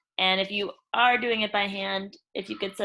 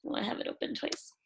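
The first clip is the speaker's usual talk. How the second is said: half-whispered note to herself, much softer; quiet self-talk under the breath; muttered aside; 9 dB quieter than usual. Real, not acted. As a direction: mumble it to yourself while fixing the screen. Muttered aside while fixing screen.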